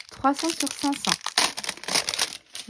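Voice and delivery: slow, high whisper. Acted. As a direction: breathe the numbers out slowly. Savoring the card number.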